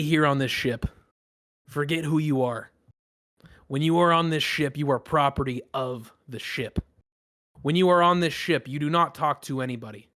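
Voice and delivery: lightly voiced commanding captain, firm emphatic openings; stern ship captain. Captain addressing everyone on the dock, stern and commanding. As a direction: lay down the ship's rules like a captain.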